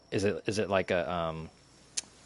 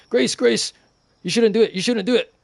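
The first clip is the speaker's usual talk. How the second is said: much higher and louder, a squeaky little alien pleading; Rocky's alien voice; 14 semitones higher, 8 dB louder than usual. Retold or imitated. Rocky warning Grace not to try it, high squeaky alien voice. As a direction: chirp the warning like a tiny worried alien. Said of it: "and then Rocky was like".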